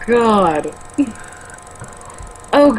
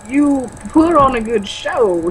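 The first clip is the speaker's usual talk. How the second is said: Christopher Walken; 4 semitones higher, slower than usual. Acted. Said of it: "trying to do Christopher Walken".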